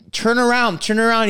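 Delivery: loud, high turn around; yelling. Retold or imitated. Passenger yelling at the driver to turn around. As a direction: bark the order twice. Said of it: "I'm yelling at this guy".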